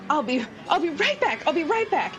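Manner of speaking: lightly voiced mermaid hurrying off; mermaid character voice. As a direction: call it lightly as you leave. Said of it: "she's like".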